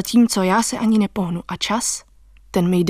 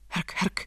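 whispered crunch sound; 12 dB quieter than usual. Acted.

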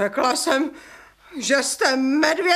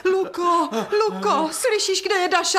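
frantic calling; 6 semitones higher than usual. Acted. Frantic call for help.

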